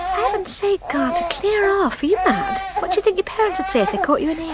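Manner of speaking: sharp, fast scolding. Acted. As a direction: tell him off in a hurried hiss-free rush. Woman woken, telling him off.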